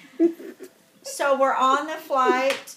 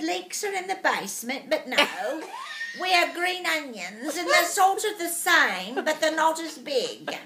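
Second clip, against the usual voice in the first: lightly put-on English accent; mimicked English accent; 2 semitones higher than usual. Explaining green onions to the English lady, put-on English accent. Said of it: "we're talking like this the whole time".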